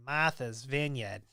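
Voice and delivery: a mild, slow try at an East Coast Martha's Vineyard; half-hearted New England accent, no r in Martha's; a light Eastern accent attempt. Shown as a demonstration. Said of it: "I don't have a very good Eastern, Eastern accent there".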